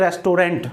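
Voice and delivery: रेस्टोरेंट as res-to-RENT; रेस्टोरेंट ending in "rent"; common mispronunciation. Shown as a demonstration. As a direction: say रेस्टोरेंट in three full syllables, "res-to-rent". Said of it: "हम कहते हैं".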